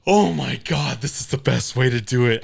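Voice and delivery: excited clerk. Retold or imitated. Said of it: "And she's".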